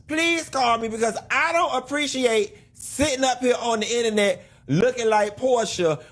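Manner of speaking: high-pitched, wound-up bewildered plea; bad Portia impersonation. Commentator pleading to be filled in, as a bad high-pitched impersonation. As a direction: badly imitate a clueless reality star, voice pushed way up high. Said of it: "That was a bad Portia impersonation".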